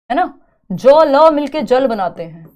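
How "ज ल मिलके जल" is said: ज and ल said apart, then blended into जल; slow, loud teacher's sounding-out of जल; sounding out letters. Shown as a demonstration. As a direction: say ज, ल separately, then join them as जल. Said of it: "ध्वनि कैसे बनाते हैं".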